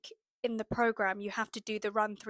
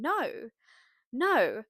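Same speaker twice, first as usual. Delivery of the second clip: excited self-encouragement; 3 semitones higher than usual. Retold or imitated. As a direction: cheer yourself on mid-run. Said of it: "I had to keep saying".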